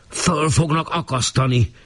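high, slow howled sentence; policeman's howl. A narrator's reading. Policeman howling the verdict at the girl, high and slow. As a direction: deliver the verdict in a mock howl. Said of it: "üvöltötte szinte magán kívül".

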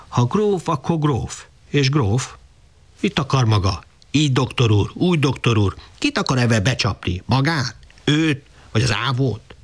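scolding scorn, jabbing each question; angry peasant woman. Acted. Rozi scolds the father over the hoeing, scornfully angry. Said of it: "Csillogott az arca a haragtól".

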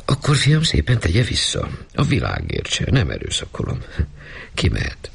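curt, firm dismissal of the maid; cool lady of the house, no argument; a firm mistress dismissing her maid. Acted. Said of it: "határozott hangja".

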